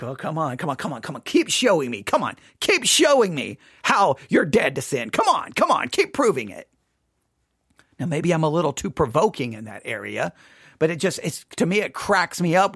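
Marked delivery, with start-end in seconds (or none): 0.0-6.7 taunting. Retold or imitated. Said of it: "And I'm just like".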